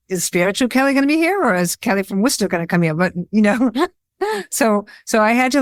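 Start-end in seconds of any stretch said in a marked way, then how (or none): 0.1-2.9 playful self-mockery. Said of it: "So I'm like".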